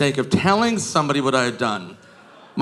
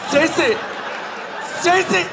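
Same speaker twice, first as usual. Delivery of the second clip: calling out to friend; 14 semitones higher than usual. Retold or imitated. Drunk girl shrieks at her friend across the bar. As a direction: scream the name across the bar.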